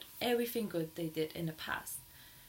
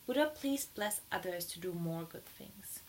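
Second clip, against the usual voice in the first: sincere prayer; 2 semitones lower than usual. Shown as a demonstration. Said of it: "That's it".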